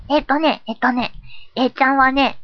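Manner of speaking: put-on a touch of childlike simplicity; lightly silly A-chan. A-chan giving a New Year resolution, lightly silly. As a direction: lightly play the simple-minded persona.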